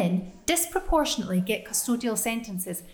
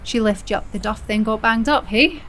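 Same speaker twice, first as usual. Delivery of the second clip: brassy reassurance; 4 dB louder than usual. Acted. Joan chats to pregnant girl.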